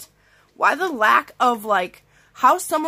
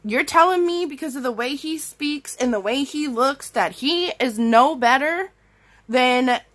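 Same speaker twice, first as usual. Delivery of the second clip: retold telling-off; 4 semitones higher than usual. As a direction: let them have it, outraged. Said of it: "I just started going off".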